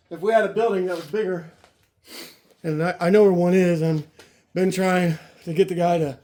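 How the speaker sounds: winded, talking between breaths; puffing after heavy lifting. Real, not acted. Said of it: "I'm out of breath".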